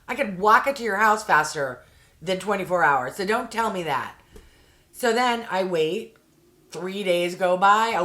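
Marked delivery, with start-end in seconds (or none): 0.1-4.1 a touch of exasperated venting; half-hearted mock outrage at the agent; retold rant. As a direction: let the irritation boil over at the agent. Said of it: "I'm like".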